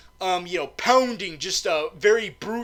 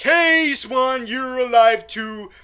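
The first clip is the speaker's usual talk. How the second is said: louder, higher acted greeting; hailing a companion; 6 semitones higher, 7 dB louder, slower than usual. James Bond greeting Swan after surviving, hailing her. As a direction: call out in mock delight. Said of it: "And he's like".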